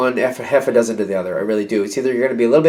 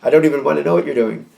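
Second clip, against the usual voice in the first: detached disgust; faster than usual. Acted. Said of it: "like, detach from it".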